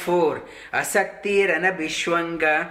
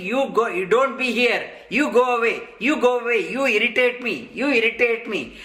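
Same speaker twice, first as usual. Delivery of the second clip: higher, pushy irritated brush-off; mock blaming; 5 semitones higher, faster than usual. Scolding strangers in the marketplace, a higher mock-irritated brush-off. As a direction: shoo people away in mock annoyance. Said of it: "Instead of blaming".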